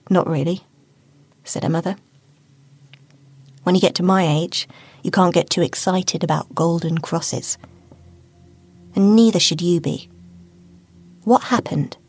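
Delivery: a weary mother brushing it off; dry mother. Acted. Mother answers dryly.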